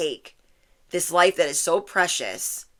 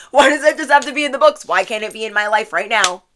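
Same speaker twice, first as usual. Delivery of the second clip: emphatic demand; 3 semitones higher, 7 dB louder, faster than usual. Acted. Reader voices the viewer wanting book romance, emphatic demand. Repeats imagined question emphatically after laughing.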